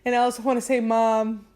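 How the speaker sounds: lightly acted tipsy confession; a touch of drunken, tearful apology; mock drunk son. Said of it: "gets drunk and he's like".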